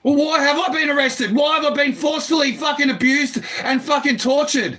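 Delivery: real, heated demand for answers; agitated protest. Real, not acted. Man challenging police over past arrests, agitated protest. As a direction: protest in forceful, aggrieved bursts.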